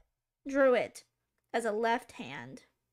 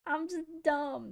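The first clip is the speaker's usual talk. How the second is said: laughing; 3 semitones higher than usual. Real, not acted. Laughing self-mockery after plain take.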